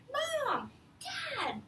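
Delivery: high excited call; yelling. Acted. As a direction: call out to your parents across the yard. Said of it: "I yelled".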